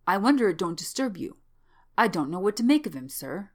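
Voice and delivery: lively, uneducated servant voice; gossiping old manservant. Acted. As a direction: confide your worries to the master as an old servant. Old manservant gossips about lodger.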